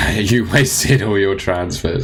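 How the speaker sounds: slow, amused read through a laugh. Real, not acted. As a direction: laugh while reading the jab out. Reading a cheeky chat jab.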